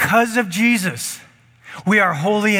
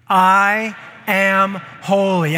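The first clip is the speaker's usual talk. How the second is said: slow, loud declaration; proclaimed; 4 dB louder, much slower than usual. Shown as a demonstration. Pastor leading church in loud declaration. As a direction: lead them, say it big. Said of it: "You ready?".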